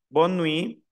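bonne nuit said slowly, ending on "nwi" with no T; drawn-out French "nuit" without its T; silent final T. Shown as a demonstration. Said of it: "no pronuncio la T final".

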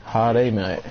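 mock Aussie. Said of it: "We get it, you're Aussie".

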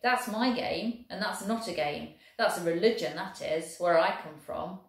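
lightly voiced Welsh soldier, proud and lively; a hint of a cheerful Welsh infantryman. Welshman boasting of rugby to the German, lightly voiced.

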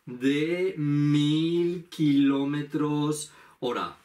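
anuncio de piloto muy lento; capitán Juan. Pretend. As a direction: alarga la cifra como un capitán. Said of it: "yo voy a ser el capitán". (piloto anunciando la velocidad despacio)

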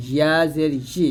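ই as "yi" with a clear y glide; mid-tongue to palate starting ই; y, not hamza. Shown as a demonstration. Teacher warns against hamza, models ই as "yi". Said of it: "ইয়াটা হামজার মতো না হয়ে যায়".

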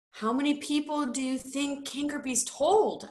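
a touch of alarm; worried. A narrator's reading. Bert asking who else Cankerby told, now worried. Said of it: "now worried".

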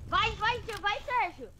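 excited cheering. Real, not acted. Cheering teammate on.

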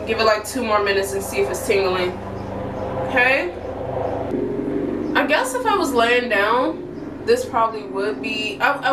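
talking with face mask on; through a sheet face mask. Real, not acted. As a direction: mask over cheeks and chin. Seen 1: Sheet mask covers face, mouth opening clear, worn throughout; refs unmasked.

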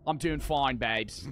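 put-on jokey, unsure Australian accent; attempted Australian accent. Gamer answering as Nick, attempted Australian accent. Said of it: "what accent I'm saying right now".

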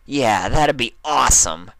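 loud overeager reply; a little too loud. Acted. Rainbow Dash answering Applejack's offer of pointers, a little too loudly. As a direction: blurt it out too eagerly. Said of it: "a little too loudly".

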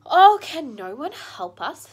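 slow, loud, high cry for help; desperate plea. Acted. Lucy begging the beavers for help, desperate and loud. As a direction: plead as if all hope is gone. Lucy despairing for her brother.

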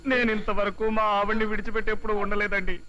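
hammed-up tearful husband's lament; sing-song comic sobbing; crying. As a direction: whimper about being left alone. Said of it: "తలుచుకుని తలుచుకుని ఏడుస్తున్నాను".

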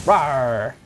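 loud playful roar through a laugh; laughing mock roar. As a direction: roar while laughing at yourself. Charging, laughing.

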